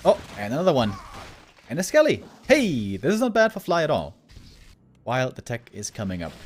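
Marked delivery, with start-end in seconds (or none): 0.0-4.2 excited play-by-play call; esports caster. Real, not acted. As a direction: hype up the surprise. Live play-by-play.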